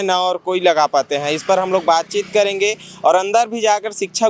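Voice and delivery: steady TV reporter delivery; field news report. Real, not acted. Reporter tells viewers about the village school, news-report style.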